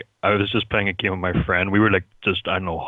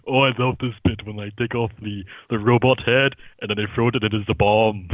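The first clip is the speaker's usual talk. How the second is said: mimicking Arnold. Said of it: "He just goes".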